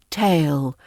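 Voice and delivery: tail ending on a deep, back L; dark L. Shown as a demonstration. Teacher repeats the pair, tail with a dark L. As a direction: pull the L at the end of tail back. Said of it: "to a dark sound".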